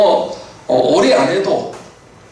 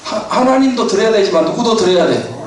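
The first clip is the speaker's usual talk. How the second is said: put-on child's pitch, rising high and laughing; cheeky child, laughing; 4 semitones higher than usual. Son answering his mother, high and laughing. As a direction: play the kid's sly answer with a laugh. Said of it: "그랬더니".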